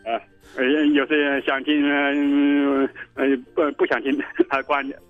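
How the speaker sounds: normal talking voice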